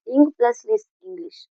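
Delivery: इंग plus लिस said as separate parts, then इंग्लिश whole; syllable split. Shown as a demonstration. Teacher builds the word for students, part by part. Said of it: "तो ये होते हैं syllable".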